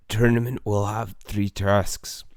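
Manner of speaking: slow, hoarse whisper as if the throat hurts; sore-throat whisper. Acted. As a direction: rasp it out slowly and under the breath. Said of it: "He's got a sore throat".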